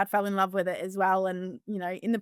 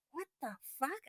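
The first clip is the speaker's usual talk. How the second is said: high, softer what the fuck; incredulous scoff; retold disbelief; 6 semitones higher, 12 dB quieter than usual. Farmer answering online haters, incredulous. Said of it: "And I was like".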